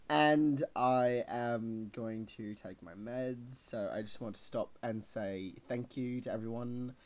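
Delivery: unhurried put-on British accent; mock-earnest British accent. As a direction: address the viewers as a Brit. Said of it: "He does this all the time".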